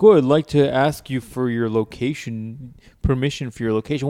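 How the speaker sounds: prissy mock app asking permission. Friend mocking an app asking for his location, prissy mock voice. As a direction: lightly parody a polite app prompt.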